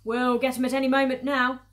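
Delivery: loud, forceful call; farmer's shout. Acted. Fat farmer Boggis to Bunce and Bean, shouting. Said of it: "the fat boggis shouted".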